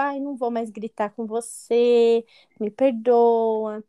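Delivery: drawn-out imitated pleading; mock apology. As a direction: stretch out a pretend plea for forgiveness. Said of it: "a pessoa pede desculpa". (pedido de desculpa imitado, arrastado)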